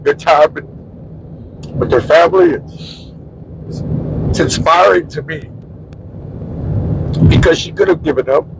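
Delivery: broken phrases with long tearful pauses; choked up, crying. Real, not acted. Husband saying neighbor inspires him, choked up. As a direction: struggle to finish while holding back tears. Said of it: "He's a big crybaby".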